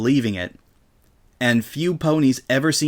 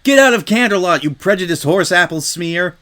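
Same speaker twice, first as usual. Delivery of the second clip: higher, louder hostile heckle; angry jeer; 6 semitones higher, 4 dB louder than usual. Acted. Crowd pony heckles Rainbow, angry jeer. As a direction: drive her out of town.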